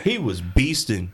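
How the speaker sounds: slow hushed aside; playful whisper. Pretend. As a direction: whisper along with the bit. Joins in with the whispered bit.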